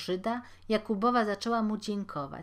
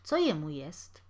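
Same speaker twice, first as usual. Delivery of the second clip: uneasy question; 3 semitones lower than usual. Acted. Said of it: "niespokojnie dodał".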